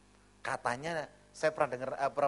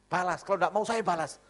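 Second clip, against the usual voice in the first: loud, raised mock threat; ancaman istri galak; 4 semitones higher, 6 dB louder than usual. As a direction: threaten loudly as the bossy wife. Wife threatens to retaliate herself. (ancaman lantang istri galak)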